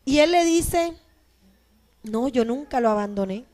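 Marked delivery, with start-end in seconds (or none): 2.0-3.4 respuesta serena. Retold or imitated. God answers the accusing man.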